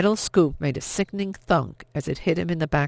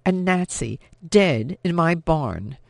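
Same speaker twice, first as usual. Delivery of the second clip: indignant, raised-pitch scolding; angry rebuke; 3 semitones higher than usual. Acted. Vianne confronting her sister over the dead Nazi, angrily. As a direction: take your sister to task.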